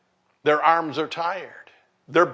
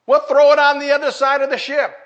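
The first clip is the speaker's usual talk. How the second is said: calling out instruction; 9 semitones higher, 5 dB louder, faster than usual. Pretend. Man on shore calls instructions.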